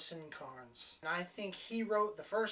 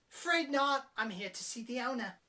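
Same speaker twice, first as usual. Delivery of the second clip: higher, haughty brush-off; a touch of snooty dismissal; smug; 6 semitones higher than usual. Retold or imitated. Woman turning down the perv, mildly smug. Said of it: "Complete smug little bitch".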